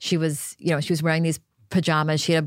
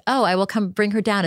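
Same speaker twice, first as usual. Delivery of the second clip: casual tone; 3 semitones higher than usual. Retold or imitated. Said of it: "in a voice like".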